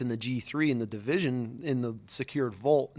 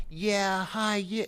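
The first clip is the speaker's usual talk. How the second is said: casual chirpy greeting; 7 semitones higher, much slower than usual. Retold or imitated. Female marines greeting casually.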